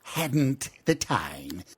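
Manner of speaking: high, loud impatient push; impatient Gryphon. Acted. Gryphon urging the Mock Turtle on, loud and impatient. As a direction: hurry him along.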